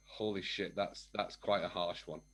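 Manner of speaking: low, hushed retold shock; stunned reaction. Hearing his wife's harsh verdict, quietly stunned. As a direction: take the blow quietly, voice dropped.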